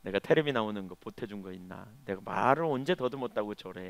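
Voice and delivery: grouse quietly, stung and resentful; grumbling to himself. Retold or imitated. Pastor driving home, grumbling about the colleague under his breath. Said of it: "속으로 막 투덜거렸습니다".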